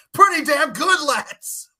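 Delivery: high, lively British bloke voice; a hint of Cockney lad; British accent. Mock British phrase.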